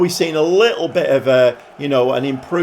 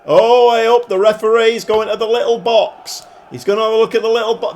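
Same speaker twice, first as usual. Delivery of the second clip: surprised; 7 semitones higher, 4 dB louder than usual. Real, not acted. Referee suddenly checks the video.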